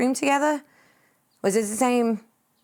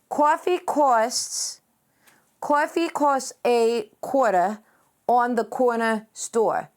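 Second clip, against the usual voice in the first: each word spelled out slowly to get it right; slow down and land every syllable; slow careful tongue twister; slower than usual. Shown as a demonstration. Streamer finally nailing the coffee tongue twister, slow and deliberate. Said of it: "that's like a tongue twister".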